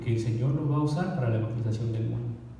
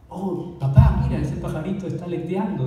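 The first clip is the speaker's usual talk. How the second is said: put-on excited child; 4 semitones higher, 3 dB louder than usual. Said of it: "dijo él en inglés".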